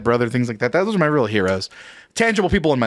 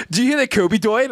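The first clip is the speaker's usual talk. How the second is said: put-on higher, babyish coworker voice; imitated speech impediment; 8 semitones higher than usual. Coworker breaking the news of a death, imitated speech impediment. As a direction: mimic a Homestar Runner-like way of talking. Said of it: "he says".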